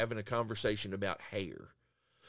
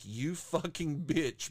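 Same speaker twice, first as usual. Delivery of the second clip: slow insult; 2 semitones higher, much slower than usual. Retold or imitated. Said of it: "I'm like".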